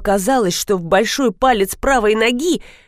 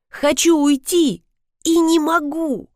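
pained; 7 semitones higher than usual. Acted. Narrator in pain, stuck.

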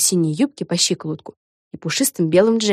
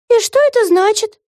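grumbled; 5 dB louder than usual. A narrator's reading. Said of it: "буркнула Вега".

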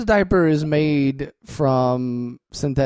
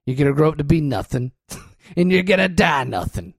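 nasty bossy bear; mean bear voice. Pretend. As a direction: tear into the kid. Bear voiced berating the kid.

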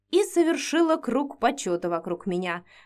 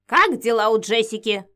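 sudden loud bark of a question; 5 dB louder than usual. Acted. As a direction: snap it out suddenly. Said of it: "неожиданно гаркнула старуха".

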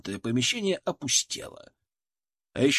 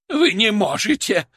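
loud, much higher squeal; panicked squeal; 7 semitones higher, 6 dB louder than usual. A narrator's reading. Fat scientist squealing at the soldiers. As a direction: shriek in protest. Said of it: "продолжал визжать толстяк".

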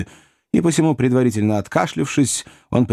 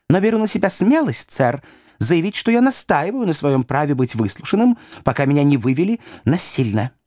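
higher, firm and indignant; indignant insistence; 6 semitones higher than usual. A narrator's reading. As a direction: stand your ground with rising indignation. Pickwick defies the magistrate.

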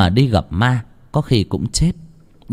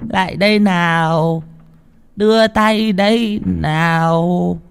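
high, slow, haunting coaxing, much higher; eerie ghost; 8 semitones higher, slower than usual. Acted. Ghost girl coaxes them to take her hand, slow eerie lure. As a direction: drag out the words to lure them. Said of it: "ma mị".

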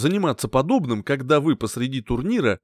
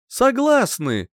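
high, drawn-out, slow agreement; eager agreement; 9 semitones higher, 4 dB louder, slower than usual. A narrator's reading. Couple accepting the hero's deal together, readily agreeing. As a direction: agree readily on one stretched word. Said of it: "чуть ли не хором ответили они".

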